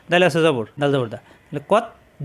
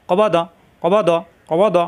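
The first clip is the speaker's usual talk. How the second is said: কবা দ run together fast with no gap; teacher repeating কবা দ briskly; quick, no pause. Shown as a demonstration. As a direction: say কবা দ quickly without stopping. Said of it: "তাড়াতাড়ি, কোনো দেরি করা যাবে না".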